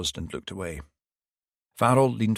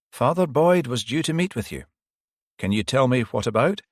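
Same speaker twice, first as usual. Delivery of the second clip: put-on higher, gentle old priest voice; elderly priest; 5 semitones higher, 5 dB louder than usual. Old priest answering the detective, pitched higher.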